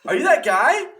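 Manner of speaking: high, loud question through laughter; laughing fan. Retold or imitated. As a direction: ask it while cracking up. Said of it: "she's like".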